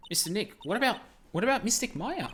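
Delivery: put-on high, anxious child's voice; high girl's voice fretting about Maya; worried little girl. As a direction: ask it like a small worried girl.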